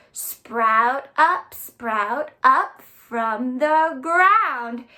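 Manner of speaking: put-on slow, chanting children's poem; a slow chant for little ones to act out; action rhyme. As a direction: draw out each line for the kids to move to. Repeats the seed poem.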